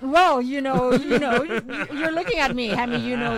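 cracking voice from spicy pie. Real, not acted. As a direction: let the voice crack. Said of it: "why is the speaker's voice cracking?".

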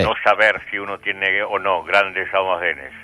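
slow, mock-earnest questioning; drawn-out ironic disbelief. Real, not acted. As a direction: question her slowly, tongue in cheek. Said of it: "está siendo irónico con usted".

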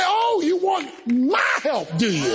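slow, drawn-out teasing question; a touch of a wry, slow divine voice; God's voice. Retold or imitated. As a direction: play God, gently knowing. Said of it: "And God will say".

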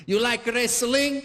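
put-on slow, high Italian-accented question; mock Italian immigrant dad; Italian father. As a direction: ask it in a thick Italian accent. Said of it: "like my Italian father".

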